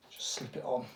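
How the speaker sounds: whispered aside. Real, not acted. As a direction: breathe it under your voice. Whispered aside while putting it on.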